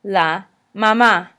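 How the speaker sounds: mamá with the final má stressed and falling; stress on second A. Shown as a demonstration. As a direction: land on the last syllable of mamá. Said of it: "accent is on the second A".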